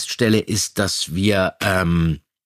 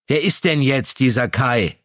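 visibly annoyed; 2 semitones higher than usual. Acted. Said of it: "Fragte er sichtlich genervt".

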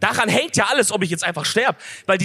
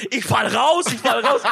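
raised-pitch mock panic, not shouted; retold panicked scream; 4 semitones higher, slower than usual. Rider retells his panic to amused friends, mild mock scream. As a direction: imitate your own terrified yelling, lightly. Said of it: "Und ich hab so geschrien".

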